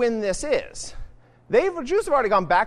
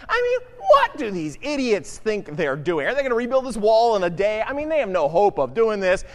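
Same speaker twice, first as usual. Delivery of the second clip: mocking taunt. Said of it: "this is like the taunt song".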